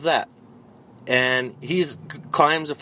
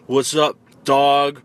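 mock slang; 5 dB louder, slower than usual. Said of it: "where they're like".

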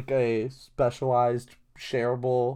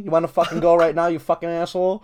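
lightly imitated angry boxer, pitched up, fast; Mike Tyson; 3 semitones higher, faster than usual. Imitating a boxer picking a fight with a TV host, heated. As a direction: rattle off a mock challenge to fight. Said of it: "he just has that lisp in his hi-, his high-pitched voice".

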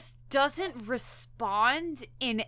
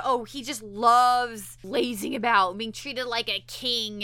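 slow, louder, sarcastic jab; mock sneering insult; 4 dB louder than usual. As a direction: sneer at him for lazing about. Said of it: "starts insulting him like that".

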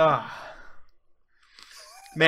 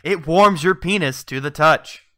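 infomercial. Pretend. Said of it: "throughout the entire advertisement".

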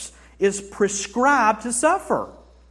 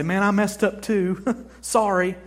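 laughing it off; 2 semitones higher, 4 dB louder than usual. Retold or imitated. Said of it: "We laugh and say".

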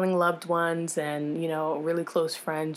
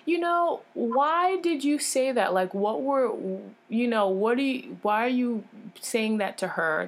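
retold pissed-off friend; 5 semitones higher than usual. Nurse friend challenging the doctor over the diagnosis, retold annoyance. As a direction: imitate an annoyed friend confronting someone. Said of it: "my friend's pissed".

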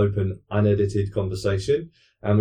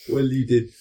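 creepy voice; 4 semitones higher, slower than usual. Retold or imitated. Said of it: "that sounds really creepy".

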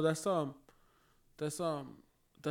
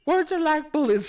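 high, slow cartoon voice with a laugh; a light cartoon-kid take on the line; South Park impression; 9 semitones higher, 8 dB louder than usual. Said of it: "you sound like, have you seen... that South Park episode".

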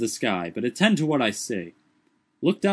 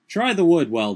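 calling up; 6 semitones higher, 7 dB louder than usual. A narrator's reading. Calling up tree.

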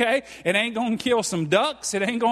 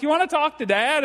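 mom's question; 7 semitones higher than usual. Retold or imitated. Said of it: "it wasn't a question. It was a statement".

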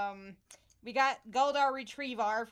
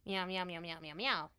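nervous cat voice; 5 semitones lower, 4 dB quieter than usual. Pretend. Podcast intro cat meowing banter.

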